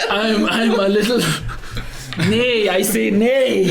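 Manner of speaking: high, slow whinnying horse voice. Pretend. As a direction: talk like a neighing horse. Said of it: "do the horse voice".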